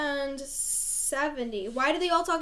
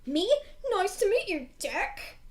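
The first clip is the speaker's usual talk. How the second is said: higher mock-polite echo; mocking retort; 6 semitones higher, slower than usual. A narrator's reading. Boy mimicking the other's greeting to him, mocking voice. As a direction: throw the greeting back in mockery.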